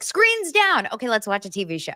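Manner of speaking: high chirpy call of screens down; mock parent announcement. Parent calling the kids to screens down. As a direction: sing it out like a cheery parent.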